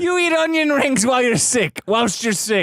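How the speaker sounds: incredulous. Real, not acted. Incredulous at friend's eating.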